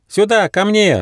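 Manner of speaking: high-pitched call to friends; excited storybook shout; Ryzh's calling cry. A narrator's reading. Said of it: "раздался крик Рыжа".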